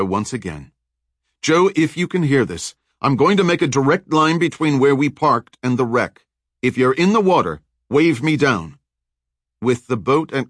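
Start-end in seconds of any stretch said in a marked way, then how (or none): 1.4-8.8 Kurt calling over the radio, raised and urgent. Acted. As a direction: call out for your missing friend. Radio call.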